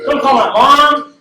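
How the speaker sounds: beg, stretching it out. Retold or imitated.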